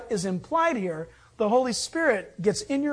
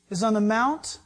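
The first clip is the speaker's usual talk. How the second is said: normal talking voice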